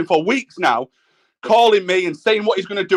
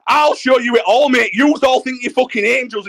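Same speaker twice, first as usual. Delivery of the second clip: real anger; 2 semitones higher than usual. Real, not acted. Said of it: "You're getting too emotional".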